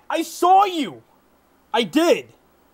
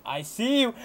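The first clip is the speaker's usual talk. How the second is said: low, soft, watchful remark; hushed spotting; 3 semitones lower, 6 dB quieter than usual. Real, not acted. Gamer first spotting an enemy, hushed. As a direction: say it under your voice as you spot someone. Spots enemy, repeats it shouted.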